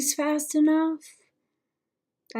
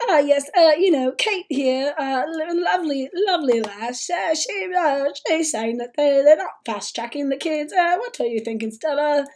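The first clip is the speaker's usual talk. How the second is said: hammed-up awkward presenter, higher; mock host voice; 4 semitones higher, 4 dB louder than usual. Mocking the TV host introducing Kate, lightly hammed-up presenter voice. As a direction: play a presenter forcing politeness. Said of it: "practice calling him Kate".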